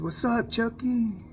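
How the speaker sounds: high, slow drawn-out greeting in another voice; acted homie greeting. Old homie greeting him by his dead brother's name, high and slow.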